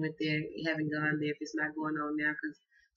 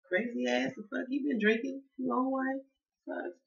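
higher, incredulous mock reaction; imitating the soulmate; 8 semitones higher than usual. Voicing the soulmate's shocked reply, higher and incredulous. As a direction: play the baffled partner, pitched up. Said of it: "You're gonna be like".

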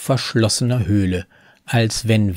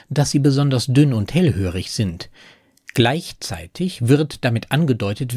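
ordinary talk, nothing marked

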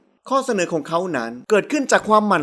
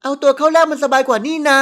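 cheeky younger sister; 5 semitones higher, 4 dB louder than usual. Acted. Girl cheekily answers sister.

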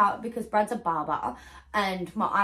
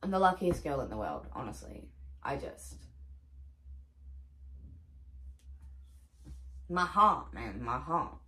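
tearful; 6 semitones lower, 6 dB quieter than usual. Real, not acted. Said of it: "gonna start crying all over again".

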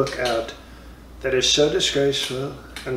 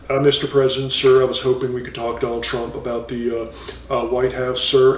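loose reporter. Retold or imitated. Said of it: "he's more loose than his by-the-book partner".

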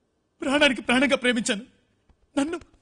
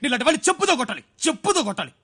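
bitter self-scolding; 4 semitones lower than usual. Acted. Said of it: "Madan, cool down".

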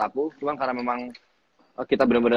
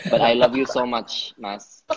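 tender; 3 dB louder, slower than usual. Real, not acted. Affectionate words to host.

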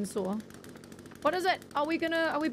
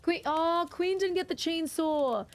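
excited call; 6 semitones higher, slower than usual. Real, not acted. Calling teammate excitedly.

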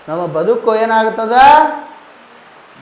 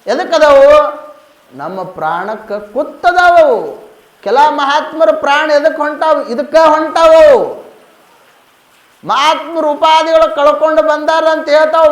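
raised, ringing sermon delivery; declamatory preaching; 3 semitones higher than usual. Acted. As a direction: put the questions to the congregation like a preacher.

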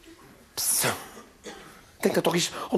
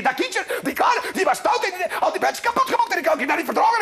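put-on whiny child pleading; 13 semitones higher than usual. Child whining to mother.

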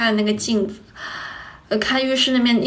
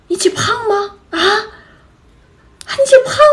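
high-pitched mock interrogation by a mother; mom questioning; 11 semitones higher, 4 dB louder than usual. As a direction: imitate mom pressing the younger sister. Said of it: "我妈就叫来我妹说". (高声模仿妈妈追问)

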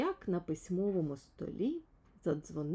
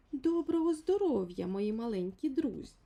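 friendly greeting; 4 semitones higher, 4 dB louder than usual. A narrator's reading. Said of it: "сказала вона, привітно всміхаючись".

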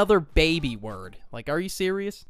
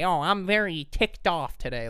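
prim librarian. Retold or imitated. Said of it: "your goddamn librarian's gonna say".

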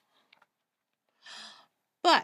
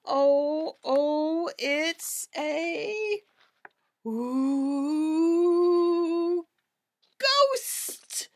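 terrified scream; 2 semitones higher, much slower than usual. A narrator's reading. Cats scream at a ghost behind the door, rising terror. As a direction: panic building to a scream. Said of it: "they screamed".

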